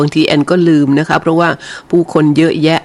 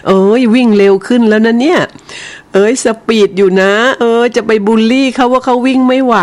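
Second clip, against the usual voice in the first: delighted cooing; 5 semitones higher than usual. Real, not acted. Host watches a listener's dog run, delighted cooing. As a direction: gush over the little dog running.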